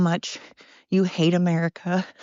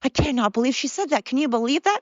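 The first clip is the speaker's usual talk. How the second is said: mock shock; 4 semitones higher than usual. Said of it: "people are gonna go".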